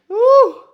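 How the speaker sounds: high loud sneeze burst. Real, not acted. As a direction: sneeze hard. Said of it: "I got the sneezes".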